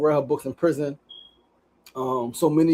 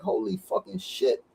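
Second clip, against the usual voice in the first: retold disbelief; 5 semitones higher, slower than usual. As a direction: relive the shock of the wiped laptop. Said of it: "I'm like".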